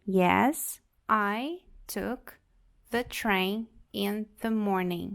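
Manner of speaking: "the train in the morning" stretched out slowly; slow model answer. Shown as a demonstration. Teacher repeating the answer slowly for the class. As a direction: drag it out clearly. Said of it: "uma possível resposta".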